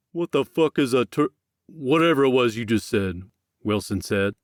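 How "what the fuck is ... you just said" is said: exasperated outburst. Acted. Wilson baffled and angry.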